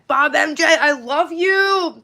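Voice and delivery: high, slow, loud swooning declaration; teasing a viewer named Bob, hammed-up love; mock flirty. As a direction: croon it to him like a lovesick fan.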